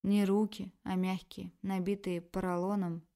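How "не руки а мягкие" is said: ordinary delivery, nothing marked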